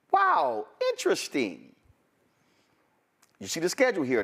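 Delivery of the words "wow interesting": wow high and mocking, then dropping flat; a mock-impressed wow, then deadpan; sarcastic wow. Mocking the White House schedule, sarcastic wow. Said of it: "We were like".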